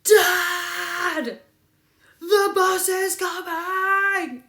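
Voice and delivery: put-on high, loud, thrilled child calling out; delighted kid yelling to her dad; excited little girl. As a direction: shout it like a small girl who just saw the bus. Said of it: "She's like".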